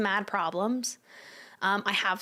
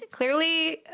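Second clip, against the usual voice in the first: Clearly said higher and louder; emphatic; 7 semitones higher, 5 dB louder than usual. Real, not acted. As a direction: burst out with a laughing Clearly. Loud repeat after laugh.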